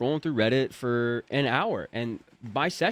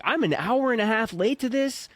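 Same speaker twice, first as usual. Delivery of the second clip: higher, hammed-up panic; imitating a panicked spiral; mock freak out; 8 semitones higher than usual. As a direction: blurt your career fears in comic alarm. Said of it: "I'm freaking out 'cause I'm like".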